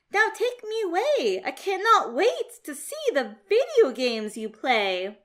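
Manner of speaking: put-on a cheerful, relaxed young cat who isn't scared at all; a hint of a breezy kid cat; David the cool cat. David greets the aliens.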